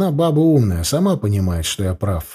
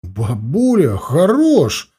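pained yelp after a jab; groaning plea; 3 semitones higher, much slower than usual. Acted. Grandson hit by grandmother's elbow, groaning. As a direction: cry out from the elbow in the ribs. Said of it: "простонал я".

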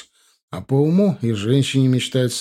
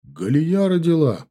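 higher, slow excited announcement; agitated announcement; 5 semitones higher than usual. A narrator's reading. Husband telling his wife about the birth, agitated announcement. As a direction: stretch out the big news, raised pitch. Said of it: "Муж звал её так, только когда сильно волновался".

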